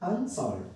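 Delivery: अनसॉल्व्ड in two parts, अन first; separate syllable. Shown as a demonstration. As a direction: sound अन as its own syllable in अनसॉल्व्ड. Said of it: "एक separate syllable हो गया". (अनसॉल्व्ड में अन अलग syllable)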